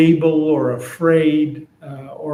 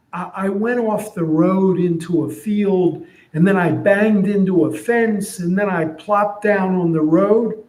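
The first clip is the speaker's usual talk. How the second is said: higher, lightly voiced donkey explaining; donkey telling a friend what happened; 4 semitones higher than usual. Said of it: "So here's what I'm imagining".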